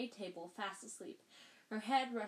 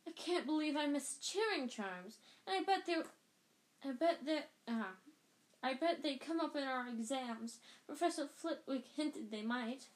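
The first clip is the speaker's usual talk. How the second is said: put-on higher fretting girl voice; lightly voiced stressed student; harassed Hermione; 4 semitones higher than usual. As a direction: worry about the exams aloud.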